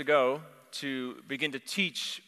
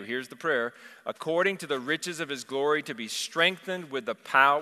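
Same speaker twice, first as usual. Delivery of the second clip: firm, louder reading of scripture; 3 dB louder than usual. Acted. Preacher reading Ephesians to the church, proclaiming. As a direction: proclaim the passage over them. Reads Ephesians aloud as prayer.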